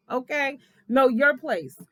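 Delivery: high, loud mock put-down; voicing Scott. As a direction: put her in her place. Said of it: "That's what he was saying".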